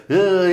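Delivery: hands-in-pockets strained "hııı"; comic groan of someone squeezing himself; mock strained groan. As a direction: act out a held-in groan. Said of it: "elleri cebinde abi".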